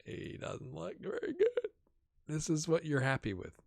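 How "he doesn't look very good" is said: high dismissive voice. Acted. Judging weak youth player.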